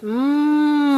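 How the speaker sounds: "Mm" held as a long hum; slowly. Shown as a demonstration. Teacher leading a child's sound drill, slowly. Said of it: "Slowly first".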